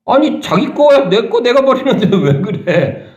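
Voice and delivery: preacher lightly voicing the woman, laughing at the fuss. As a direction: play her amused, shrugging off the critics. Voices the woman defending herself.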